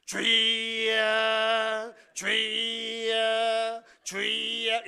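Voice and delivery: loud, long-drawn droning shout; mock prayer cry. Evangelist leads kids calling out three times, drawn-out mock wail. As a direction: stretch each cry out on one held note. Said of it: "세 번을 이렇게 외치기 시작했습니다".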